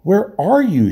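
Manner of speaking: high, calling out into the dark; king hailing an unseen voice; shout. A narrator's reading. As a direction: call across the water. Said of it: "shouted Caspian".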